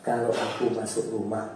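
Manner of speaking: husband asking his wife gently to open the door; tender request. Retold or imitated.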